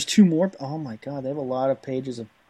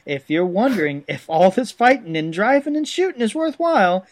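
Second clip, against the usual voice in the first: animated, swinging manual narration in a put-on accent; hammy storytelling read; 3 semitones higher than usual. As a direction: sell it like a hokey Southern narrator. Reads game text in character voice.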